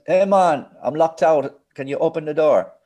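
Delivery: high, loud retold plea; locked-out caller. Engineer phoning the studio he's locked out of, pleading loudly. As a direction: imitate an agitated caller asking to get in.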